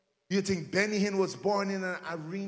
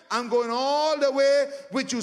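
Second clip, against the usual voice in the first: bold declaration; 3 semitones higher, 5 dB louder than usual. Shown as a demonstration. Preacher rallying the congregation, loud and proclaiming.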